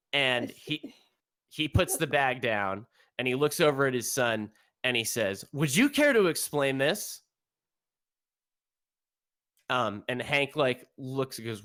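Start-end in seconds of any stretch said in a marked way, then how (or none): 5.5-7.2 stern father. Acted. GM voices stern father confronting son.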